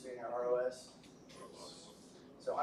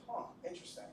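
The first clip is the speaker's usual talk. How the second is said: breathy, hushed mock interest; quietly skeptical aside; unimpressed whisper; 5 semitones higher, 7 dB quieter, faster than usual. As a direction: whisper it like you don't buy it. Skeptical doctor reacts to patient.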